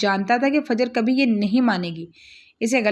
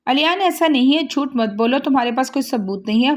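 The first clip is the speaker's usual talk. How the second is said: stunned; 3 semitones higher than usual. Acted. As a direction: blurt it out in disbelief, then settle. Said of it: "हक्का बक्का रहकर बोली". (हक्का-बक्का होकर ऊँची आवाज़ में इनकार)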